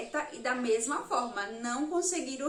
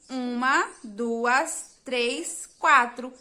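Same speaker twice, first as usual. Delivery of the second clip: counting syllables; 3 dB louder, much slower than usual. Shown as a demonstration. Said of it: "ela tem quatro sílabas".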